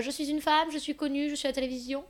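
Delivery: a player guessing who she is; playing the guessing game. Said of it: "tu dois dire".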